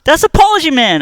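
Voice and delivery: loud, high excited call-out; excited shout. Real, not acted. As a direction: shout the name with delight. Excited greeting of a fan.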